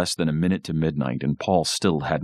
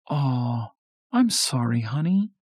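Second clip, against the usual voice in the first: sympathetic; 10 semitones higher than usual. A narrator's reading. Mom consoles Paul on losing vote.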